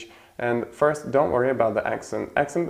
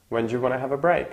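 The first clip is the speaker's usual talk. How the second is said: fast relaxed repeat; faster than usual. Shown as a demonstration. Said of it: "very often is pronounced wanna".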